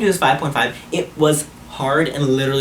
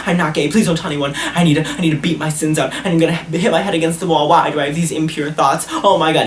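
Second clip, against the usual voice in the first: higher-pitched mock panicked confession; imitating frantic guilt; 4 semitones higher than usual. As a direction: blurt it out as a hammed-up guilty sinner. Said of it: "he was going crazy saying".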